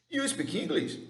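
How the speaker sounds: very high, amazed question; acted surprise. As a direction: ask it as if astonished by the news. Repeats the surprised reaction. (pergunta surpresa, bem aguda)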